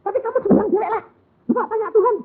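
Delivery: put-on high, pleading girl voice; high girlish voice. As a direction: beg in a high young voice. (suara gadis tinggi memohon)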